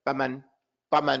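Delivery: quick "faman" with a shortened first vowel; wrong vowel length. Shown as a demonstration. Teacher shows what you can't say, mispronounced. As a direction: skimp on the "fa" of "faman". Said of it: "You can't say".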